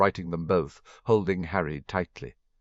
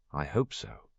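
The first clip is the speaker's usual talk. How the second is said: fervent; 4 semitones lower, 4 dB quieter than usual. A narrator's reading. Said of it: "Sirius said fervently".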